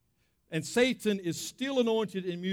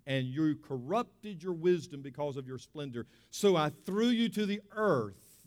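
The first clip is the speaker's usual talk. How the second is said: scripture reading. Acted. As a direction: read the passage with weight. Reads scripture aloud.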